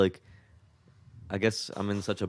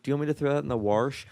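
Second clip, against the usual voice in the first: imitating Mom; 5 semitones higher, faster than usual. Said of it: "She's like".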